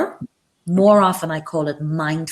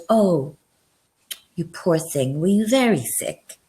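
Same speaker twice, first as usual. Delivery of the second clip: sincere sympathy. Shown as a demonstration. Teacher believes a sick student's excuse, sincere sympathy. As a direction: console a student who was ill, sincerely. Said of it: "in a slightly different way".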